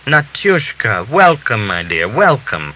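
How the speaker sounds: tender, slow, eager greeting; fussing welcome. Acted. Father-in-law fussing over his returning daughter-in-law, tender. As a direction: greet her warmly, fussing. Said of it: "Panteleimon fussed around her".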